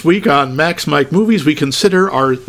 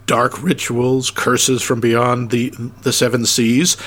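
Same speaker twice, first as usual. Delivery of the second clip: ominous; 3 semitones lower than usual. Pretend. Ominous joke in list.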